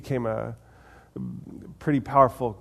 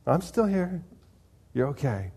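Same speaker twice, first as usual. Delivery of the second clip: high, lightly voiced reassurance; gentle reassurance; 4 semitones higher than usual. God answering those who ask where he is, gentle reassurance. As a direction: answer a worrier in a lifted, unforced voice.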